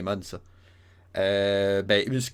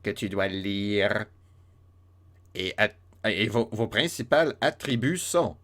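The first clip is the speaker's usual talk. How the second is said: elf voice. Retold or imitated. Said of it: "On va dire qu'il parle de même".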